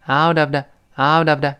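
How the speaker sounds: slow "out of the" run together; linked pronunciation. Shown as a demonstration. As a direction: link "out of the" slowly for the learners. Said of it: "这个连读啊".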